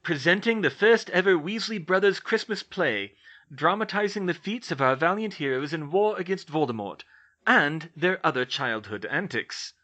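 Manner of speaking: theatrical ringmaster opening the show; showman announcer. Acted. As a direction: announce the play like a circus showman. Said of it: "in full showman mode".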